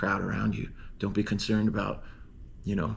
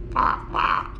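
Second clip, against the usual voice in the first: imitated heron squawks; 5 dB louder than usual. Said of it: "he does two squawks".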